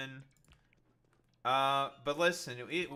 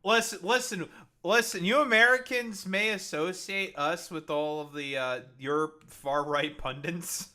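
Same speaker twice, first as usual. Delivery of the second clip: mock lecture; 3 semitones higher, 5 dB louder than usual. Mock-addressing Americans about Canadians.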